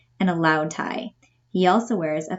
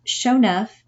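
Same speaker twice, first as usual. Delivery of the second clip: Pop's try at Southern sho nuff, raised and louder; mock Southern accent, sho nuff; hammed-up Southern sho nuff; 4 semitones higher, 4 dB louder than usual. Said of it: "learn the dialect".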